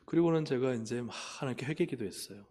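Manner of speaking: usual speaking voice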